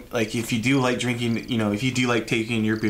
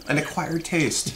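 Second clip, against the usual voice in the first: slowly, each word drawn out; slow and deliberate; 3 semitones higher, slower than usual. Shown as a demonstration. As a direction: say it like finding the word. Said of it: "what do they call that?".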